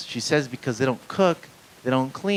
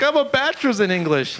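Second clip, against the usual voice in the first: lightly imitated white kid, pitched up high; hint of white kid; 12 semitones higher, 4 dB louder than usual. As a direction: put on a higher voice for the kid. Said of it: "it's like this white kid".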